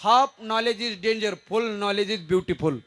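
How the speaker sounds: very slow, word by word English; slow mock proverb. Shown as a demonstration. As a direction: spell out the saying with exaggerated slowness. (अतिशय सावकाश इंग्रजी म्हण)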